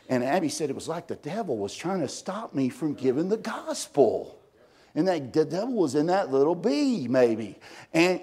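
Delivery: ordinary talk, nothing marked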